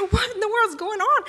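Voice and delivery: loud, high, flabbergasted outcry; astonished. Retold or imitated. Mom seeing the doll bounce around, astonished. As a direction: exclaim in acted shock.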